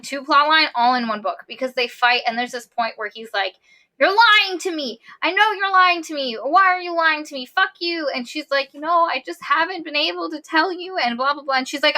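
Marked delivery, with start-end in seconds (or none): 4.0-8.1 high, pleading mock outrage; heated quote, voice pushed high; retold angry accusation. Retold lovers' quarrel, accusing. 8.7-11.0 retold protest. Retold quarrel, defending herself.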